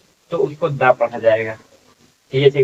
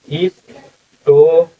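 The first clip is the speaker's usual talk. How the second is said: slow sounding out; 3 semitones higher, 4 dB louder, much slower than usual. Shown as a demonstration.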